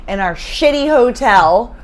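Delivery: broadcast announcer delivery. Real, not acted. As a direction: speak like a radio announcer. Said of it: "You have this weird announcer voice".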